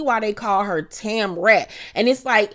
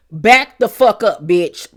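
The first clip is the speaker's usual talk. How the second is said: mock telling off; 5 dB louder than usual. Jen telling Tamra off.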